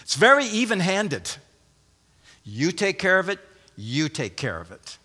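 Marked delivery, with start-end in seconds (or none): 2.4-3.4 raised, open-ended instruction to one person; addressing the first. Acted. Preacher voicing Paul to the first woman, raised instruction. Addressing each of two women in turn. 3.8-5.0 much lower, softer echo of the instruction; addressing the second. Acted. Preacher voicing Paul to the second woman, low and soft. Addressing each of two women in turn.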